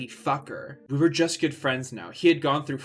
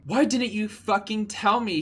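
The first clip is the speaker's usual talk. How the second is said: much higher, angry shout; 8 semitones higher than usual. Acted. Draco shouting at Ebony for hiding it, high and angry. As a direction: blow up at her. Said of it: "he shouted".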